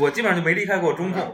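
laughing while joking. Real, not acted. Joking about always running controls.

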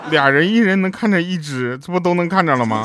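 拖慢、抬高的老妈腔调; 学老妈一本正经出主意; 模仿老妈. Retold or imitated. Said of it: "边抹眼泪边说". (学妈妈抹着眼泪说话)

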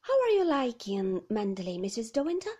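a lightly voiced chirpy nurse; bright cheerful nurse. The nurse turns to the new wife, lightly bright and cheerful. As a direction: sound brightly polite. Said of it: "very bright, very cheerful".

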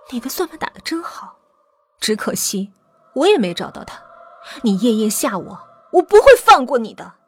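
controlled scorn rising to a threat; cold sneer. Acted. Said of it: "娇兰冷笑道". (冷笑着威胁)

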